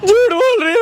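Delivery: high mock-tearful accusation; put-on crying. Boy complaining to the girl's mother, mock crying. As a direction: whine it through a fake sob.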